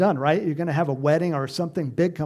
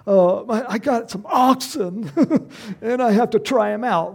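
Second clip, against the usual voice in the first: wimpy excuse; 4 semitones higher, 4 dB louder than usual. Retold or imitated.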